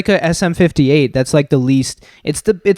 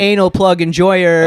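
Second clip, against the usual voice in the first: announcer intro; 2 semitones higher, 4 dB louder than usual. Pretend. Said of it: "let me give you a better intro".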